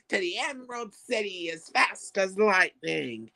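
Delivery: high cackling laughter around a cry; gleeful high laughing call; laughing shout. Acted. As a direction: whoop with glee at the ride.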